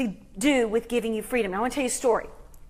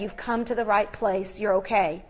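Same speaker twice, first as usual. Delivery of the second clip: softer, low, soothing murmur; calm a frightened woman close to her ear; retold whisper; 5 semitones lower, 6 dB quieter than usual. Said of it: "whispered in her ear".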